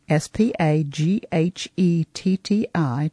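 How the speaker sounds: S P A G H E T T I spelled letter by letter; spelling out letters. Shown as a demonstration. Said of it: "let me spell some things for you".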